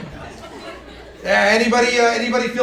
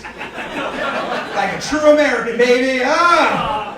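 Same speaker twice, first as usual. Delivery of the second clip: mock patriotic drawl; much slower than usual.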